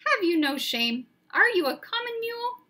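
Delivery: high, loud angry tirade; thundering rage. Acted. Bane scolding Firenze for carrying a human, furious shouting. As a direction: berate him with full fury. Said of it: "Bane thundered".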